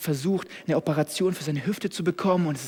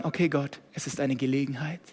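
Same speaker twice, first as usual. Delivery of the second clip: calm acceptance; 3 semitones lower, 5 dB quieter than usual. Pretend. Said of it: "Und sagen".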